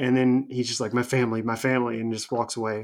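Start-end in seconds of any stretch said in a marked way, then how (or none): 0.9-2.0 mock tearful voice, as if about to cry. Retelling a moment on live TV: imitating someone about to cry. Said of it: "So he's about to cry".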